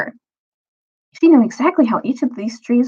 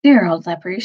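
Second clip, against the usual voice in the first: happy murmur; 2 semitones lower than usual. Acted. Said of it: "she murmured happily to herself".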